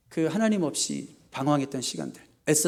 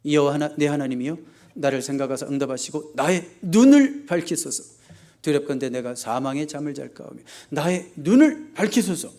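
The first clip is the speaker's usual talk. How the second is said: changed prayer tone. Acted. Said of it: "톤이 확 바뀌었어요".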